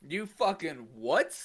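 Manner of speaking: slow, stunned question. Retold or imitated. Friend replays his stunned reply, slow. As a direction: drag it out in disbelief. Retold disbelief.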